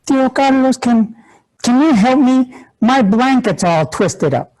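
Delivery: put-on a niece asking her uncle for help, childlike voice; little niece voice. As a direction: ask like a small child with a tangled blanket. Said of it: "tells me".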